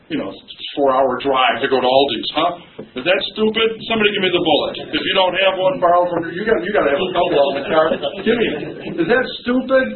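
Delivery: high, rising disbelief; incredulous mock challenge. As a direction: challenge the congregation, half-joking. Mocking incredulous rhetorical challenge.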